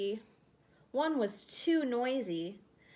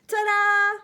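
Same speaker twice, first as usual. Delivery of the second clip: much higher, louder reveal with a laugh; 10 semitones higher, 11 dB louder than usual. Acted. Norman showing off his wings, laughing ta-da. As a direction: present it with a giggle.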